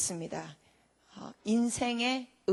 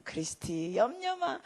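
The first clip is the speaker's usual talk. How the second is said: reassuring father; 5 dB quieter, slower than usual. Retold or imitated. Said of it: "그러면서".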